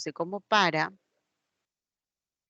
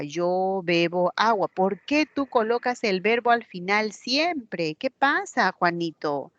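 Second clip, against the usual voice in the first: lightly hammed-up reproach to a pupil; mock exasperated teacher; 3 semitones higher, 4 dB louder than usual. Teacher scolds pupil Juanito, mildly mock exasperated. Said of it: "el profesor lo desaprueba".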